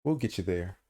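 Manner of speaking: pat him on the head with your voice; mock-tender condescension; mock soothing. Condescending reassurance to co-host.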